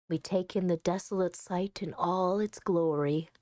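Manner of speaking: low, even storytelling voice; story narration. Acted. Player reading the game's final scene, low story narration. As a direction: read it low and gently measured.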